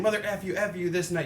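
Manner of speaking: mock cursing. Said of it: "instead of saying".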